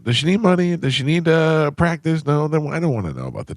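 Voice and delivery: fed-up, rising voice; exasperated rant. Retold or imitated. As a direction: rant like you've had it. Ranting at wife.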